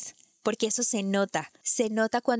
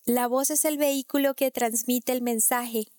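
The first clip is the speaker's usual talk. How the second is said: "mensaje" left hanging up, unfinished; sing-song the line so it sounds incomplete; singsong intonation; 3 semitones higher than usual. Shown as a demonstration. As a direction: melodic sing-song delivery. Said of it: "suene cantada".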